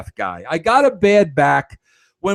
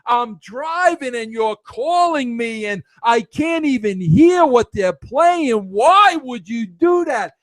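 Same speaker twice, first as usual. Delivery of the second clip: higher, slower, indignant complaint; mock angry daughter; 4 semitones higher, slower than usual. Daughter scolds dad for calling while she drives, mock angry. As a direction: scold him like an annoyed daughter. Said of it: "all of a sudden now".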